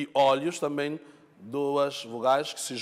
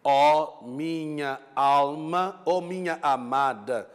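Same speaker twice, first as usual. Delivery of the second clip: verse recitation; 3 dB louder, slower than usual. Shown as a demonstration. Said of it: "nós temos o quê?".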